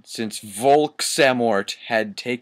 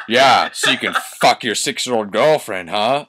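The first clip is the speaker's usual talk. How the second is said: sarcastic shout; 5 dB louder than usual. Acted. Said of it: "I shouted sarcastically".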